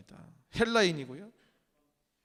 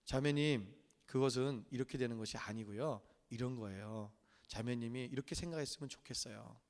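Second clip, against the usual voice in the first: softer, lower, gentle and kind; 7 semitones lower, 7 dB quieter than usual. Shown as a demonstration. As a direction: read it like a kind note to a friend. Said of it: "말이 부드럽죠?". (부드럽고 조용하게 다정한 말투로)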